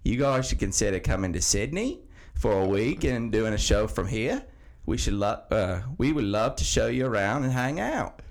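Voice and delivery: mock Aussie accent slipping into British, with laughs; laughing while reading the Aussie listener's email in a bad accent; bad Australian accent. Listener email in a slipping mock Australian accent. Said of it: "a really shitty Australian accent".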